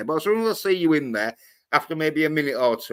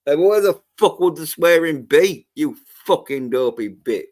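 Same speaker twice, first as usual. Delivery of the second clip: louder, higher incredulous rant; exasperated outburst; 3 semitones higher, 5 dB louder than usual. Real, not acted. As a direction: throw the question back in disbelief. Exasperated retort to critic.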